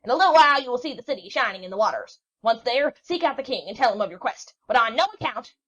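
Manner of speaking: loud, high, exasperated crone; an old witch yelling directions at the sailor; shrieking witch. A narrator's reading. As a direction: shout down every question. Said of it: "cried out again".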